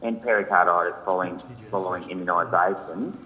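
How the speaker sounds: distant, muffled phone line; speaking too far from the phone; phone held away. Real, not acted. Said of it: "I'm having trouble hearing you".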